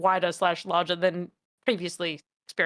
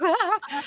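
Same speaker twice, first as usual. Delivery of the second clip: yelp; 10 semitones higher than usual. Pretend. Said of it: "thrashing around being like".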